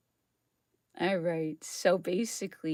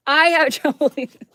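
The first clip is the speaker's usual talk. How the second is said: laughing, much louder and higher; 7 semitones higher, 11 dB louder, faster than usual. Real, not acted. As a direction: laugh out your disbelief. Laughing disbelief.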